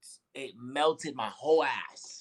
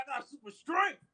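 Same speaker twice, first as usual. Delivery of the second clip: much higher, excited mock boast; high-pitched boast; 13 semitones higher than usual. Dreamer shows off his new power, high-pitched boast. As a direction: brag in a squeaky high pitch.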